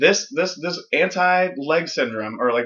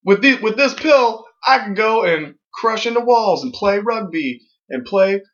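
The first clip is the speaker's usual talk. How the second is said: cheesy ad testimonial; 4 semitones higher than usual. Pretend. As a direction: sell it like a happy pill-ad patient. Voicing happy ad patient.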